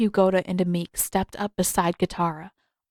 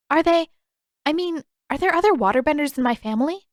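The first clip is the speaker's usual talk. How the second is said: eager; 8 semitones higher, 3 dB louder, faster than usual. Acted. Katara eager about family.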